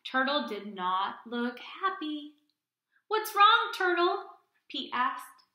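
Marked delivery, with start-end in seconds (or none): 3.1-4.4 concerned question. Acted. Pete asks with concern.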